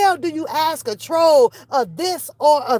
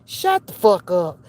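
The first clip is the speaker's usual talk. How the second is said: low-pitched, contained shut-down; low scolding; 8 semitones lower than usual. Pretend. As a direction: drop the pitch and silence them. Imagined scolding, first take.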